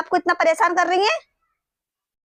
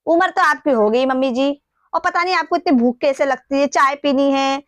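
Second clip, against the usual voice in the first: irritated scolding; 3 semitones higher than usual. Acted. Rude daughter-in-law scolds mother-in-law.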